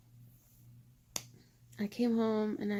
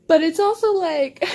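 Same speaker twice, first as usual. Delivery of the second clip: loud high excited squeal; giddy squeal; 6 semitones higher, 12 dB louder than usual. Real, not acted. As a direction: gush with delight at full volume. Gushing over fan fiction.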